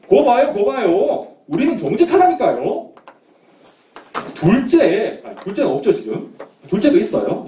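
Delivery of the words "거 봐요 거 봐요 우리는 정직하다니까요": 루벤. Acted. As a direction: insist on being honest, mildly indignant. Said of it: "첫째 루벤이 막 따졌겠죠". (높은 목소리로 따지듯)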